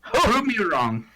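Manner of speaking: slow taunt. Pretend.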